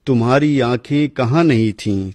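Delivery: measured, declaiming verse recital; poem recitation. Acted. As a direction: recite like a poet at a gathering. Repeating verse for audience.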